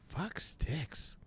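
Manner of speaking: under-the-breath curse; an annoyed aside whispered under his breath. Real, not acted. Frustrated by broken stream.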